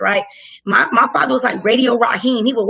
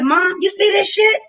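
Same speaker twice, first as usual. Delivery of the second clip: incredulous call; 7 semitones higher than usual. Retold or imitated. Calling to her mom during the stop, incredulous. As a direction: call out in disbelief.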